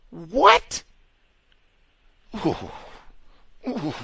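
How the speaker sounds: high loud disbelieving what; mock outrage. Host mocking the customer with a shocked what. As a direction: yelp it in fake shock.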